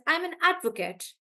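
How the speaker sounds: "advocate" stressed on AD, ending in a weak "kut"; noun stress. Shown as a demonstration. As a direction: hit the AD in "advocate" high. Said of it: "I would stress on the first part".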